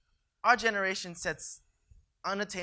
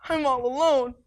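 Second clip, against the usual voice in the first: loud lament; 6 semitones higher, 7 dB louder than usual. Acted. Lament after battle.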